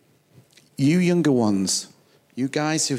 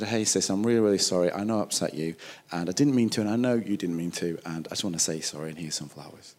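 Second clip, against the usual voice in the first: retold apology; 7 semitones lower, 3 dB quieter, faster than usual. Acts out apologizing to sister.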